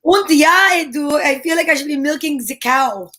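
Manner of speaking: lightly put-on German accent; a mock German farm-girl voice; a hint of a German accent. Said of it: "I like your accent".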